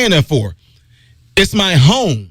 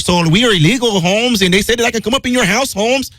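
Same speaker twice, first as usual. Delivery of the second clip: mock visitor at door; 3 semitones higher than usual. Acted illegal visitor at the door.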